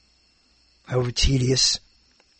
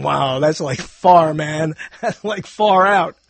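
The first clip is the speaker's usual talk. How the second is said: laid-back hippie drawl; a hint of a far-out hippie; hippie talk; 3 dB louder, slower than usual. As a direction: play it like a stoned beatnik. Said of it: "I didn't talk like that".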